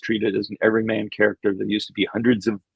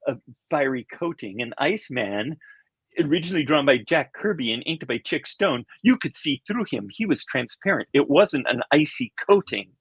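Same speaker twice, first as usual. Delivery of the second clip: pedantic fanboy, pitched up; nerd voice; 5 semitones higher than usual. Retold or imitated. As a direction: correct everyone like a know-it-all fan. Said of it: "I don't remember talking that way".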